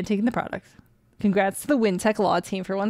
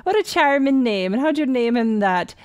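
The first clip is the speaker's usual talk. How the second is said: higher, louder mock-Irish priest; bad Irish accent; 4 semitones higher, 5 dB louder than usual. Priest asking how the dog got named, bad Irish accent. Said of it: "I apologize for my bad accent".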